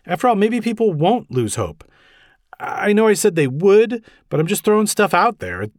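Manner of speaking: high, anxious rambling protest; nervous babbling, pitched well up; flustered Gordon. A narrator's reading. Flustered Gordon tries to dissuade Batman.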